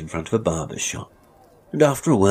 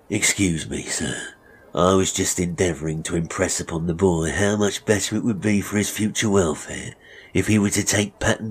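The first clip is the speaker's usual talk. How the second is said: a touch of false courtesy; smooth it over for the customer; lightly voiced unctuous barber. Barber excusing himself to a stranger, falsely polite.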